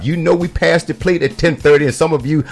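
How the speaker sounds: booming pastor's pulpit announcements; church announcements. Pretend. Mock pastor scolding late members about church time. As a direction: preach the notices to the congregation.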